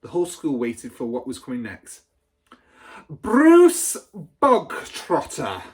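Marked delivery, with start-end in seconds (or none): 3.1-5.6 high, loud, stretched-out bellow of his name; sudden bark. A narrator's reading. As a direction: call him out like a drill sergeant. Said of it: "the Trunchbull barked suddenly".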